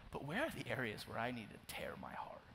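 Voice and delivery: softly whispered plea to God; whispered prayer. Pretend. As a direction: pray it under your breath. Voicing an intimate prayer.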